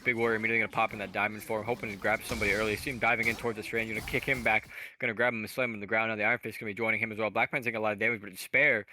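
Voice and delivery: rapid-fire auctioneer patter; auctioneer talk. Real, not acted. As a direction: rattle it off like an auctioneer. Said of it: "I'm talking like an auctioneer".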